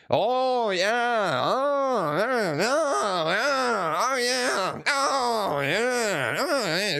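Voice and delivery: high, drawn-out oh yeah in a mocking Minnesota accent; exaggerated Minnesota oh yeah imitation. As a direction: ham up the boss teasing a Minnesota accent. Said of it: "just make fun of the, "ah".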